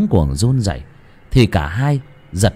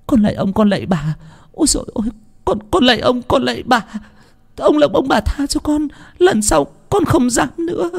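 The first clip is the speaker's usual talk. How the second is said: very high, wailing plea for mercy; desperate pleading; 13 semitones higher than usual. A narrator's reading. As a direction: beg through the beating. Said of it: "mặc cho cô Thơm van xin". (người hầu khóc lóc van xin, giọng rất cao)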